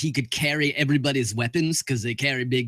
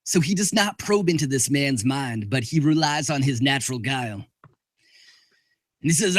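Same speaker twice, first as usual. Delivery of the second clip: ordinary talk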